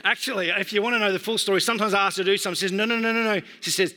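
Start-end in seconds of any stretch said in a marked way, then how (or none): 2.7-3.4 put-on quick run of noes like a little child; lightly voiced stubborn little girl; daughter imitation. Three-year-old brushing off dad's request, lightly imitated. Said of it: "This is how she talks".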